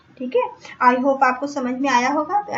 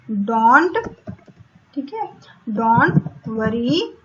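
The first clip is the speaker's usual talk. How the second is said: slow dictation; 2 semitones lower, slower than usual. Shown as a demonstration.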